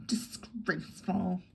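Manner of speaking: lightly voiced imperious dowager; Mrs Caldecott, slow and commanding.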